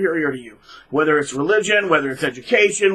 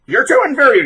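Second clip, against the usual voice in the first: mock sneering narc; 9 semitones higher, 5 dB louder than usual. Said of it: "Just agree with them".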